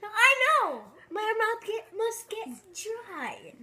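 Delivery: high excited I know; excited exclaim. Real, not acted. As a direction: blurt it out excited. Mouth drying out, exclaiming.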